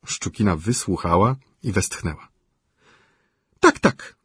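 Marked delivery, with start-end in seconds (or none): 3.6-4.2 pleading widow. A narrator's reading. Szczukina voiced by reader.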